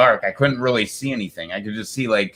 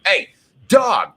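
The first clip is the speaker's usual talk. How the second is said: calling the dog; 12 semitones higher, 4 dB louder than usual. Retold or imitated.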